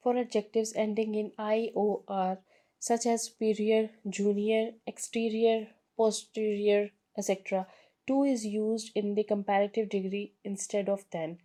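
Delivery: slow, careful textbook reading; reading the rule aloud. Shown as a demonstration. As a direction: read the rule out slowly for students. Reads rule from book slowly. (धीमी किताबी पढ़ाई)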